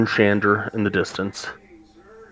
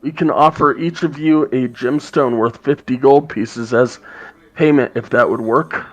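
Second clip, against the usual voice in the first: a raspy voice; 3 semitones higher than usual. Acted. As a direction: rasp it out as a gruff dwarf. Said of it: "in a raspy voice".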